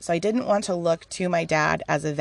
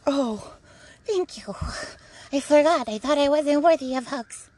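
high, hammed-up whimper; overwhelmed, pretend-weepy relief; mock tearful gratitude; 7 semitones higher than usual. Speaker thanking Spirit for a hug, mock tearful gratitude.

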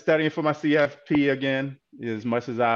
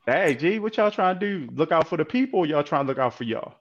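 higher, pointed "what are you doing" voice; challenging question; 4 semitones higher than usual. Retold or imitated. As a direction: call them out with raised pitch. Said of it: "it's sorta like".

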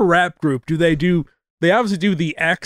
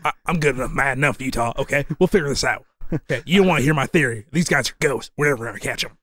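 lightly voiced veteran partner; a hint of a film actor's voice; Gary Busey; 3 semitones lower, faster than usual. Telling Utah his theory, light Gary Busey impression. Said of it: "I should just do the Gary Busey lines".

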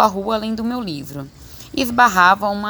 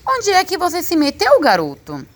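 high-pitched call, dropping on the last word; father hollering for his son, pitched way up; gritando; 10 semitones higher than usual. A narrator's reading. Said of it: "ele começa a gritar". (grito agudo de pai procurando o filho)

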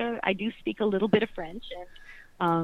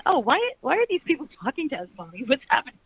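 put-on child's voice; 6 semitones higher, faster than usual. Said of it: "they started going".

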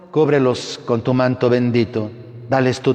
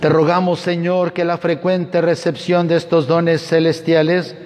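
raised, intoned liturgy; cathedral echo; 5 semitones higher than usual. Acted. Priest intoning closing rites.

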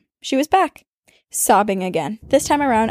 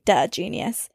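mocking demon; 4 dB quieter, slower than usual. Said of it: "it laughed, like, as if to say".

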